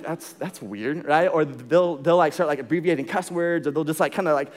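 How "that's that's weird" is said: slow deadpan. Retold or imitated. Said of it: "I'm like".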